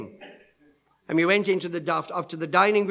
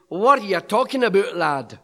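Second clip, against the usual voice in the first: lightly imitated Scottish accent; 4 dB louder than usual. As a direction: put on a touch of Scots, dropping on the last word. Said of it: "with his Scottish accent".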